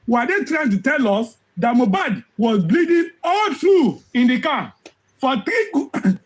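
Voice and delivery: hoarse, voice giving out; strained voice near its end; losing voice. Real, not acted. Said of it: "I'm losing my voice a little bit".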